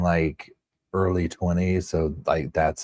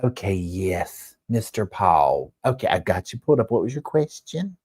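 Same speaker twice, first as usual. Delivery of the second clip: Heidi imitation. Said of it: "she'd be like".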